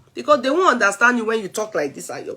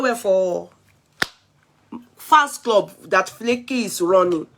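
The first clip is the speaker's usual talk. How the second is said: ordinary talk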